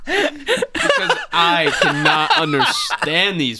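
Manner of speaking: slow words through real laughter; giggling disbelief; laughing. Real, not acted. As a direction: laugh while you drag it out. Laughing at confusing British post.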